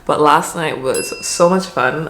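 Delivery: slow, groggy hungover voice; tired morning-after voice. Real, not acted. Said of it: "you can already hear in my voice".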